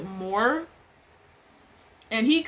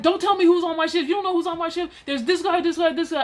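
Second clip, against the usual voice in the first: imitating a worked-up coworker, higher pitched; mock angry ranting; 7 semitones higher than usual. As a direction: parody someone heatedly talking over you. Coworker cuts her off in retold quarrel.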